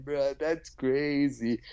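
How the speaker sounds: very slow, drawn-out dismissive "bro"; a lightly hammed-up smug bro; mock podcaster. Joking recap, the podcaster brushing off the story, mock smug.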